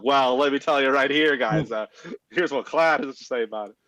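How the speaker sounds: loud New York accent, mocking the GM; brash New York narrator voice. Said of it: "is that your New York accent?".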